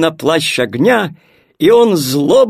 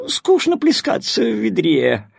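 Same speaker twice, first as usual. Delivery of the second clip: whining; 6 semitones higher than usual. Acted. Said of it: "захныкала вода".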